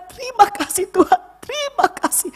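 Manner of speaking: retold heartfelt, high-pitched thanksgiving; grateful prayer.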